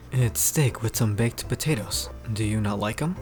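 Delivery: deep, measured character voice; deep-voiced Pierce. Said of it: "how deep the guy's voice is".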